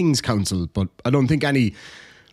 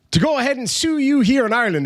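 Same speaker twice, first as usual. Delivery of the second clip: mock pompous lawyer; 9 semitones higher, faster than usual. Mock reading of lawyer email.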